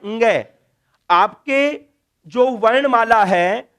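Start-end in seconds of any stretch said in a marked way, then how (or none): 0.1-0.4 ङ said as a nasal ng, g through the nose; pure pronunciation. Shown as a demonstration. Teacher giving students the pure sound of ङ, nasal. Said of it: "इसका शुद्ध उच्चारण क्या है".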